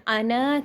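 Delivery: "انا" with a lengthened final a; pausal long alif. Shown as a demonstration. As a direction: stretch the end of "انا" as at a stop. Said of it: "جب ہم وقف کریں گے".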